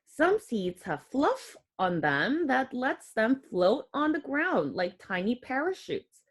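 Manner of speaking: put-on clear, gentle read-aloud for kids; reading to children. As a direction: read the book aloud to little ones. Reads picture book to children.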